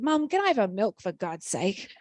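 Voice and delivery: a hint of a small child parroting a grown-up phrase; little daughter voice. Two-year-old daughter quoted asking.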